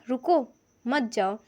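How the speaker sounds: रुको, brief stop, then मत जाओ; pause after रुको. Shown as a demonstration. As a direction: break after रुको so मत जाओ stands alone. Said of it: "बस यहाँ पे फ़र्क है कॉमा का".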